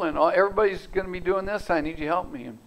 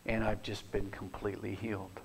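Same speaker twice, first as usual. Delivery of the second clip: tearful; 6 semitones lower, 10 dB quieter than usual. Retold or imitated. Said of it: "in her broken tears".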